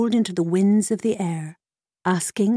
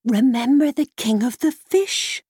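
higher horse-like whinny voice; whickering mare; 5 semitones higher, 3 dB louder than usual. Acted. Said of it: "whickered the mare into his ear".

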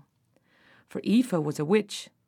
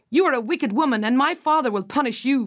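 raised, higher and louder accusation; girl crying out at wicked stepmother; 4 semitones higher, 4 dB louder than usual. Acted. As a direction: defy the witch with a raised voice. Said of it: "Fionnuala cried".

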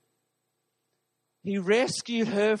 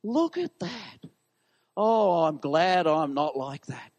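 smug Pharisee; 3 semitones lower, slower than usual. Retold or imitated. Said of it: "this is what the Pharisees were like".

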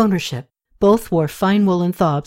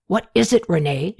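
sharply. Acted. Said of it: "she spoke sharply".

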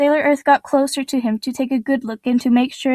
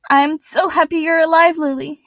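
exclaiming; 4 semitones higher than usual. Acted. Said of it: "exclaimed Ray".

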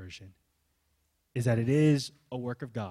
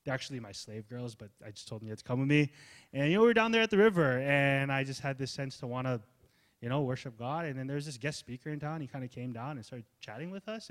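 unexcited casual testimony; 3 dB quieter than usual. Retold or imitated. Pastor imitating a bland testimony, offhand and quick. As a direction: shrug it off like nothing happened. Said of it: "Lydia's might have sounded like this".

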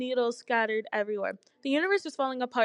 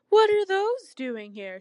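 high, loud, drawn-out singsong; 8 semitones higher, 6 dB louder, slower than usual. A narrator's reading. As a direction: sing the question out teasingly. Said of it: "she sang".

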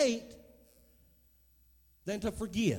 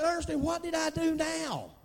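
exasperated shout; 5 semitones higher than usual. Retold or imitated. Retold plea to mother-in-law.

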